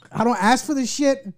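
laughing through the words. Real, not acted. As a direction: crack up while saying it. Repeats punchline, laughing.

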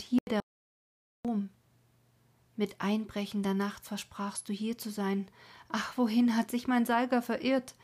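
put-on a mournful young woman keening by night, by turns calling out and whispering; grieving maiden's lament. Maiden mourns lover and brother on the rock, keening. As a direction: sing out her grief over the dead lover and brother. Colma's lament read as a voiced figure.

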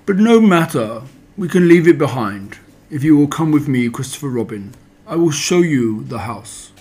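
a hint of a sulky donkey brushing others off; mild Eeyore, lofty then hushed at the name. Eeyore voiced in story.

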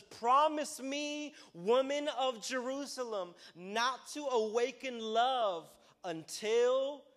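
high, slow, loud cry of a plea; pleading yell. Acted. Woman crying out to the women of Jerusalem, slow loud plea. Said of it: "you can kinda tell she's yelling this out".

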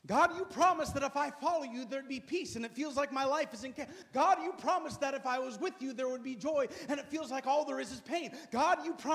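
loud, hurt outcry at God; anguished complaint to God. Acted. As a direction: cry out to God as if his promises failed.

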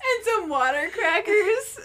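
high, slow, loud hostess offer through laughter; mock-grand, giggly high voice; princess hostess. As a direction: draw it out like a hammed-up princess. Continues the princess hostess bit.

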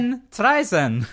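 German. Acted. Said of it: "I am German, remember?".

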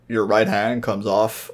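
slow deadpan quote. Retold or imitated. Podcaster quoting Leon's comeback from the game, deadpan. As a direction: say it straight-faced and slow. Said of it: "like, deadpan face is like".

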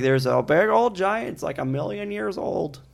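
lightly voiced old grandma; a hint of an old grandmother telling tales. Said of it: "That was my best grandma voice".

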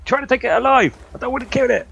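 loud call over the shoulder; shouting back. Acted. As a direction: shout it back to a friend behind. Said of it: "I'm also going to shout back to Estelle".

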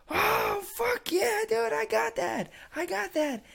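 very high, loud mock celebration; imitated gleeful boasting. Crazy friend bragging to his buddies at the club, mock elation. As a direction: crow in triumph as the crazy friend.

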